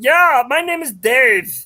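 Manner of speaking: fake, put-on German accent. A caller introduces himself as Dave to the show's hosts, in a put-on German accent. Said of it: "I recognize your accent".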